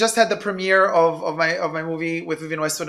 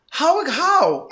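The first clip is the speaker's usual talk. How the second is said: higher, baffled disbelief; incredulous how; 8 semitones higher than usual. Retold or imitated. Host baffled by new buyers, incredulous question. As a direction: ask how anyone affords it. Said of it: "I'm like".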